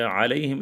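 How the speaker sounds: علیہم with a clear ain, no ghain; correct pronunciation. Shown as a demonstration. Teacher gives students the right form, clear ain. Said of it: "اس کا صحیح جو لفظ ہے وہ ہے علیہم".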